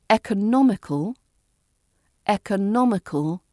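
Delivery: "economical" with weight on NOM; third-syllable stress. Shown as a demonstration. Teacher modelling the word, stress on third syllable. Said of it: "we put the stress on the third".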